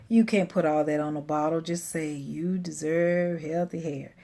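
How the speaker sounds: lightly imitated drowsy husband; a hint of a just-woken husband; sleepy husband. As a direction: mumble it lightly, as if half asleep. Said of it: "in his sleepy voice".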